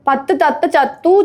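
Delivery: quick run through the twister; speedy tongue twister. Shown as a demonstration. Urging a friend to say it fast, demonstrating quickly. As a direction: rattle it off without gaps. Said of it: "speed പറയൂ".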